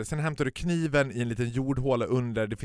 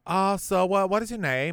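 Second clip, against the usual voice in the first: mock hostess; 9 semitones higher, 5 dB louder than usual. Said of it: "hon bara".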